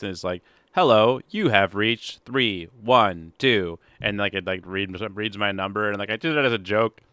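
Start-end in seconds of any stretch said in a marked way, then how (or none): 0.7-3.8 slow robot voicemail voice. Retold or imitated. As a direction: read it like an automated phone robot. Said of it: "an impression of the robot voice".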